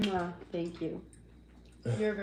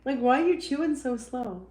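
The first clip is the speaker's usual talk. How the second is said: mock urging; 6 semitones higher, 6 dB louder than usual. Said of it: "I'm like".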